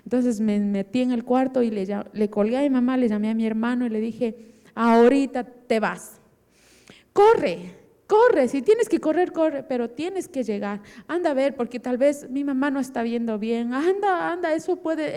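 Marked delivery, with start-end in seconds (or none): 4.8-15.2 emphatic, drawn-out orders; urgent command. Retold or imitated. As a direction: push someone to go immediately. Orders brother to run and check.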